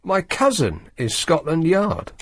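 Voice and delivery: slow, disbelieving repeat; incredulous. Real, not acted. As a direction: echo it back in disbelief.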